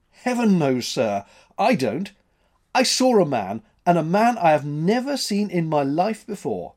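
a lightly voiced frightened mate, pleading; alarmed first mate. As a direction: insist shakily to the captain that you saw him. Mate insists he saw a stranger.

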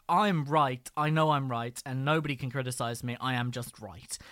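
smug know-it-all tone; condescending. Retold or imitated. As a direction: say it like you can't be wrong. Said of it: "condescending way as".

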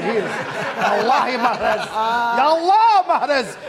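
put-on playful Arabic accent. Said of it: "keep talking in the Arabic accent".

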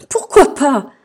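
high, loud, merry retort; amused guffawed retort. A narrator's reading. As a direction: toss it back loudly, amused. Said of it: "s'exclaffa Madame Bonheur". (réplique hilare)

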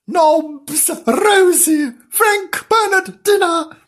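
very high falsetto roll-call shout; loud, high summons to dinner; Gillian. A narrator's reading. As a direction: call each pet name separately, high and piercing. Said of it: "Gillian calling them".

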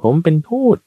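high, loud shout from the back. Acted. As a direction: yell it over the crowd, twice. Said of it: "ตะโกนขึ้นบอกว่า". (ตะโกนเสียงสูงดังจากข้างหลัง)

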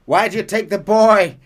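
high, loud, cracking up mid-line; laughing. Acted. Hosea questioning Mrs Braithwaite, dissolving into laughter. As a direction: try to ask but break into laughter. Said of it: "Hosea asks her".

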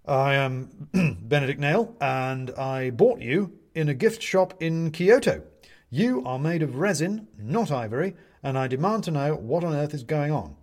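high, loud declaration; indignant demand. Acted. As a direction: stand up to the judge and demand answers. Benedict indignantly confronts the owl.

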